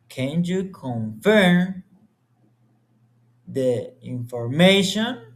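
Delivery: yes-no question with the pitch lifting toward "information"; rising question intonation. Shown as a demonstration. Student showing the class a yes or no question, rising tune. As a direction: ask it openly and let the tune climb at the end. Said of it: "the intonation is rising".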